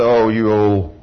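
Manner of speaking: low, slow, dragged-out devil taunt; devil's voice. Acted. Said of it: "that devil said".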